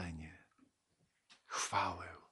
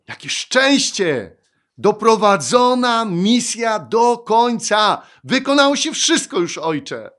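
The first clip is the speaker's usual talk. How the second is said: exultant shout; 11 semitones higher, 16 dB louder than usual. Acted. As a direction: proclaim it jubilantly to the Father. Preacher acts out joyful cry. (radosny, donośny okrzyk)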